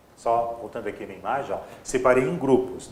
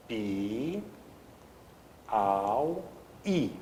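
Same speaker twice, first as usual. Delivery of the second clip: syllable by syllable; 6 dB quieter, much slower than usual. Shown as a demonstration. Teacher dividing the word Piauí, syllable by syllable. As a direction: separate "pi", "au", "i" with clear gaps. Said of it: "a palavra Piauí".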